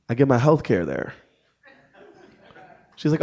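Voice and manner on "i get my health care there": deadpan reply. Retold or imitated. Deadpan reply to gushing stranger.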